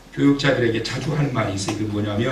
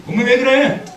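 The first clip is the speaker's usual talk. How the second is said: put-on higher, confused child's question; bewildered; 9 semitones higher, 5 dB louder than usual. Daughter baffled at her mother's odd request, higher. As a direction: sound thrown by what's happening. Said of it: "어리둥절하는 거예요".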